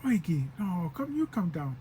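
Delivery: a lightly voiced cool guy calling Oiki from the truck; mild casual call from the truck. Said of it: "trying to be all cool".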